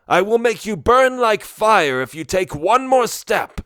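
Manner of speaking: high, loud furious wizard threat; angry threat. A narrator's reading. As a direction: threaten them in a rage. Barloth threatens the orcs.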